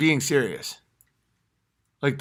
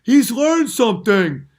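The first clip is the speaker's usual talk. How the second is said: high, slow mock awe; mocking gullible fan; 9 semitones higher, 9 dB louder than usual. Comic mocking fans who fall for it. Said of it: "make people go".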